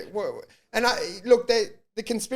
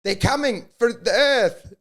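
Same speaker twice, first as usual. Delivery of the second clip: mock alarm yell; 4 semitones higher than usual. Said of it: "and then you yell".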